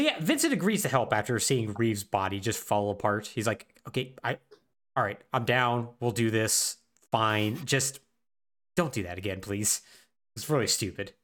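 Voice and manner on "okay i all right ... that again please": low, deflated acted resignation; halting, unimpressed mock consent; reluctant agreement. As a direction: give in grudgingly, trailing lower. Reluctant agreement voiced for Vincent.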